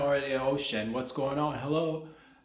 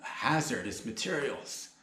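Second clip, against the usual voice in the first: words caught on spit; choking; 3 dB quieter, slower than usual. Real, not acted. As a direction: talk through a choking cough. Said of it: "Almost choked on my own spit there".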